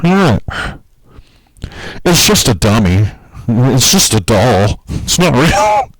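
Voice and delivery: high, playfully innocent protest; mock innocence. To Facebook, a high mock-innocent protest.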